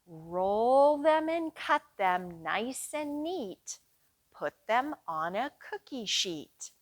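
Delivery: sing-song nursery rhyme chant; rhyme for children. Acted. Librarian leading kids through a cookie-baking rhyme, sing-song. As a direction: chant it slowly for little ones.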